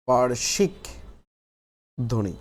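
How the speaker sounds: পার্শ্বিক held up, long pause, ধ্বনি falling; slow dictation. Shown as a demonstration. Teacher dictating the third heading to the class, slow and broken up.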